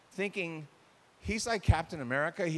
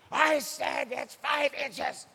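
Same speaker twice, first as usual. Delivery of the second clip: slow and louder, insisting on the same words; raised voice; 9 semitones higher, 5 dB louder, slower than usual. Retold or imitated. Husband repeating himself louder instead of explaining, raised voice. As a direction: repeat it louder as if they didn't hear. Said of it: "he'll just raise his voice".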